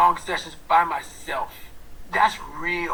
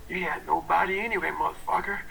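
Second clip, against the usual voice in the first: gruff self-talk; 2 semitones lower, 5 dB quieter than usual. Retold or imitated. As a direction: mutter the taunt to yourself. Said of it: "see how I'm talking myself".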